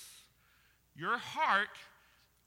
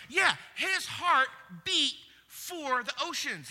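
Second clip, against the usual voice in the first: loud, slow, ringing proclamation; emphatic shout; 6 semitones higher, 5 dB louder, slower than usual. Real, not acted. Preacher proclaiming Cousteau's passion to the crowd, shouted slowly. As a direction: call it out to the back row.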